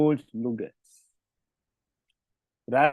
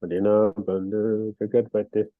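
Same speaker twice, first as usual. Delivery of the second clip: prayer recitation; 2 semitones lower than usual. Acted. Recites opening Sanskrit prayers.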